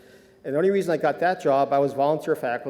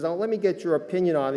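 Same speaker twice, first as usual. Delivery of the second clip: higher, lightly put-on Southern accent; bad Southern accent; 4 semitones higher than usual. Smirking trainer asking the new doctor's opinion, mild Southern accent. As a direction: imitate a Southern trainer, roughly. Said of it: "Sorry, bad Southern accent".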